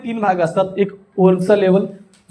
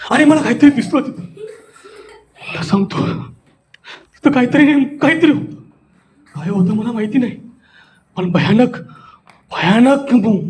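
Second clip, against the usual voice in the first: frightening suspense. Shown as a demonstration. Teacher telling pupils of a huge thing seen, spooky suspense. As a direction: build dread in broken, halting phrases. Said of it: "भीती घालणे".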